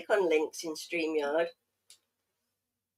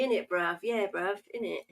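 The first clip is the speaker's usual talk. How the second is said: mock London slang. Shown as a demonstration. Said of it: "teaching Manticore local English".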